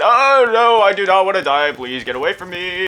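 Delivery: high, playful cry of alarm that eases off; mock panic. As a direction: plead for your life in hammed-up terror. Mock pleading while in game danger.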